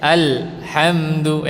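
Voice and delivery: alhamdu slow, l stopped short; cut-off sukun. Shown as a demonstration. Teacher shows the cut-off l to avoid. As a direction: alhamdu with the l clipped off. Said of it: "Atau putus".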